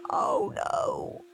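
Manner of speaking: high breathless whisper of alarm; panicked. A narrator's reading. Henry hearing someone coming, a high panicked whispered gasp. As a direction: gasp it as if caught out. Hearing footsteps, about to be caught.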